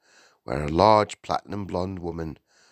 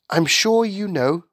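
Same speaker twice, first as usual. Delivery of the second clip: high, raised, formal opening; earnest higher-pitched schoolteacher; explaining teacher; 13 semitones higher, 6 dB louder than usual. A narrator's reading. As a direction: begin a firm explanation.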